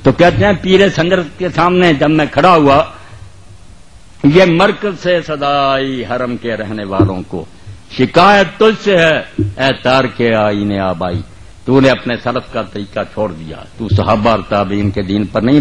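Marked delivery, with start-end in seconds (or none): 4.2-11.2 poetry recitation. Acted. Preacher reciting Urdu verse to the congregation, measured declamation. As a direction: recite it line by line, letting vowels stretch.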